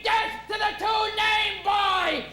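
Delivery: high, drawn-out mob chant; slow mock battle cry; mock screaming. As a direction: cry out the death sentence like a hammed-up war cry.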